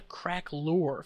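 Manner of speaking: Craquelure said as "crack-loor"; careful pronunciation. Shown as a demonstration. Tutorial host showing a hard filter name, Craquelure pronounced crack-loor. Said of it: "learn how to pronounce".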